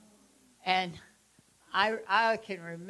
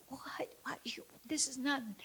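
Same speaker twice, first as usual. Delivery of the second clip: high, soft whisper brushing it off; dismissive whisper; 6 semitones higher, 7 dB quieter than usual. Retold or imitated. Ladies in the car brushing off her tears, in a high whisper. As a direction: whisper it like it's no big deal. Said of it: "They're all like".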